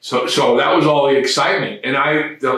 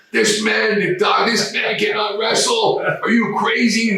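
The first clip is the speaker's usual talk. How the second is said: higher, disbelieving doctor; incredulous doctor; 7 semitones higher than usual. Retold or imitated. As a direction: protest like a shocked doctor. Doctor refusing to let wrestler.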